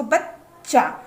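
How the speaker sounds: बच्चा split by a held stop on the doubled च; half consonant shown. Shown as a demonstration. Teacher asking learners to try it, बच्चा broken at the half च. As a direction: hold the closure in बच्चा before releasing चा. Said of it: "तो बोल के देखिए इसको".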